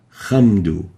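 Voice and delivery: khamdu with a rough kha; wrong kha. Shown as a demonstration. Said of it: "and not".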